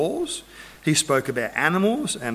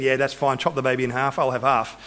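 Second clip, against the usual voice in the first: indifferent agreement; 3 semitones lower than usual. Retold or imitated. Indifferent rival woman, voiced in story.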